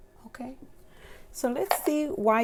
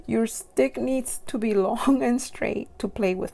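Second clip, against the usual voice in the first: giggly; 3 dB louder than usual. Real, not acted. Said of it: "Why am I so giggly for this one".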